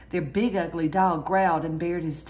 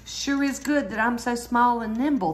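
little bear voice; 4 semitones higher, 4 dB louder than usual. A narrator's reading. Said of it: "thought Boo Boo".

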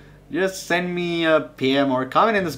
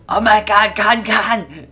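high, loud mock fan squeal; mimicking an excited fan; excited fan shout; 8 semitones higher, 6 dB louder, slower than usual. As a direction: gush like a starstruck fan. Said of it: "they'll be like".

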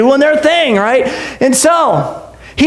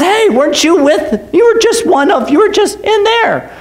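put-on higher-pitched accusing girl; lightly voiced nosy servant girl; servant girl's accusation; 5 semitones higher than usual. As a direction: point him out, pitching it up. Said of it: "She goes".

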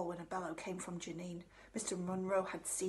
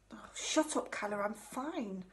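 grunted; 2 semitones higher, slower than usual. Acted. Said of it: "grunted Charlie".

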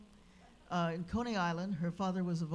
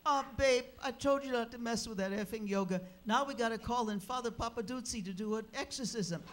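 husband's resigned reply; 5 semitones higher than usual. Retold or imitated. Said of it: "I'll clean up what he actually said".

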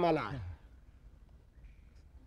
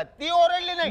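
higher, louder disbelief; incredulous; 8 semitones higher, 5 dB louder than usual. Acted. Catching the witness's flaw, higher indignant disbelief. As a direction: pounce on the gap in his story. Inspector questions the story.

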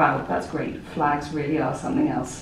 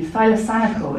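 voiced companion; 5 semitones higher, 3 dB louder than usual. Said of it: "They might continue".

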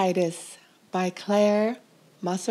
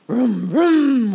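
vroom; 4 semitones higher, 5 dB louder than usual. A narrator's reading. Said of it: "went the tractor".

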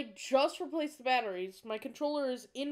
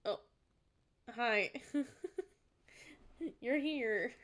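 usual speaking voice

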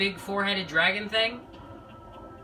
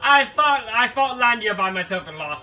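gloating villain voice; 4 semitones higher than usual. Acted. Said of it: "so I gotta give him his voice".

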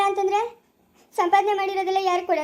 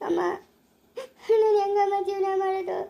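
higher, crying helplessly; crying despair; 3 semitones higher than usual. Acted. Geetha crying to her mother-in-law that she cannot have children, despairing. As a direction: plead through tears. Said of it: "ಅಳೋದ್ ಬಿಟ್ಬಿಟ್ಟು".

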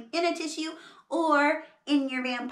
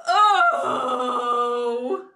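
long, drawn-out acted "oh"; defeated groan; 6 dB louder than usual. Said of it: "he's feeling so sad and defeated".

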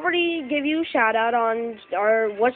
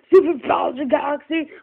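excited shout; 3 semitones higher than usual. Real, not acted. Kid shouting game title excitedly.

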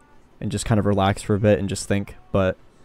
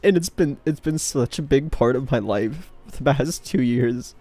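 tearful voice; 4 semitones higher, slower than usual. Real, not acted. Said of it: "fucking crying over it".

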